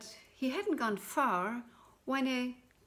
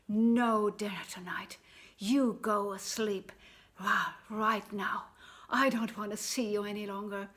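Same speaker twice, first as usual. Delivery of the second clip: stern hiss; 4 dB louder than usual. Acted. Mother punishes Jack.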